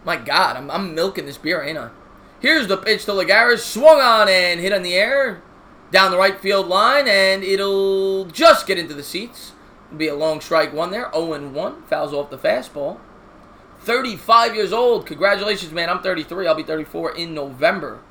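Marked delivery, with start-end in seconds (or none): 2.4-13.0 steady broadcaster call of the inning; play-by-play commentary. Acted. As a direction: call the game like a TV announcer. Mock play-by-play of game.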